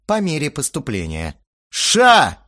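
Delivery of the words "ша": loud, high barked command. Acted. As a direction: slam it down like a bark. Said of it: "рявкнул я".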